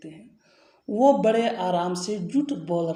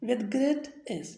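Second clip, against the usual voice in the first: slow dictation; 3 semitones higher, much slower than usual. Shown as a demonstration. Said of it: "teacher reads the English answer".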